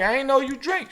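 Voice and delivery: playful high-pitched imitation; retold surprise. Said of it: "I'm like".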